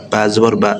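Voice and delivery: "বা জবর বা" said quickly, with a short "বা" and no lengthening; quick short vowel. Shown as a demonstration. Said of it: "হরকতের উচ্চারণটা একটু তাড়াতাড়ি হবে". ("বা জবর বা" দ্রুত, টান ছাড়া)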